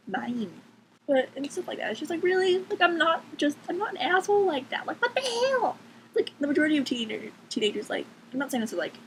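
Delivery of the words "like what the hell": a breathy, high whispered "what the hell"; exasperated whisper. Real, not acted. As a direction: let the disbelief slip out under your breath. Exasperated aside about being judged.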